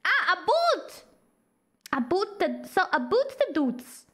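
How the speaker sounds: trying out a Canadian "boot"; mock Canadian accent. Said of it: "How to do Canadian accent?".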